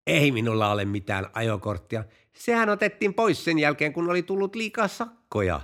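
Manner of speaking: acted testy comeback, pitch climbing partway through; testy retort. Driver answering the policeman about the lost licence, testy retort. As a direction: answer back crossly, in mild earnest. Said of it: "kuljettaja äyskähti poliisille".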